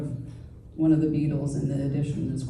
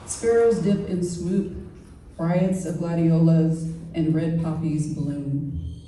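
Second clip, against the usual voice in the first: slow, spaced recital of short verse; haiku reading. Acted. Poet reads travel haiku to a gathering, slow poetry reading. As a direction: set each image apart with a pause.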